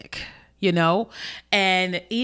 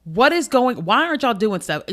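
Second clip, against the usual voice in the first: mildly exasperated retold questioning; retelling indignant disbelief; upset; 3 semitones higher than usual. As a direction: demand answers from the family, a touch heated. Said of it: "I just start getting upset".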